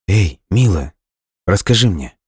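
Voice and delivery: anxious but caressing appeal; worried, tender. A narrator's reading. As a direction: coax gently with worry, pitch lifted. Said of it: "Его встревоженный, ласковый голос".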